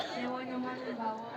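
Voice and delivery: puppet voice. Pretend. Puppet character gives father's name.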